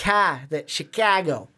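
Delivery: "ka" alone, then "Chicago" as shi-KAH-go; local pronunciation. Shown as a demonstration. Host drilling the local way, "Chicago" with "ka". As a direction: stress the open "ka" in "Chicago". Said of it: "where ours is Chicago".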